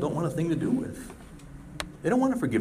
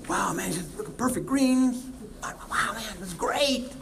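amazed golfer; 8 semitones higher, slower than usual. Pretend. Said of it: "That's the".

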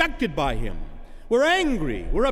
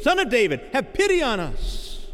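calling from afar; 6 semitones higher than usual. Acted. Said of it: "they stood at a distance and said".

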